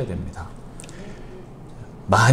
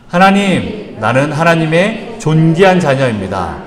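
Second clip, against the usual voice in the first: a firm, mildly raised declaration; shouted together; 4 semitones higher, 5 dB louder, slower than usual. Shown as a demonstration. Pastor leads the congregation in shouting the declaration, firmly. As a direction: call it out with the congregation. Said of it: "우리 같이 외쳐봅니다".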